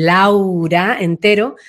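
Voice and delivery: "Laura" drawn out in full; open, stretched "Laura", every syllable given; full, strong name. Shown as a demonstration. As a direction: give "Laura" its whole length with strength. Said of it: "daría esta fuerza".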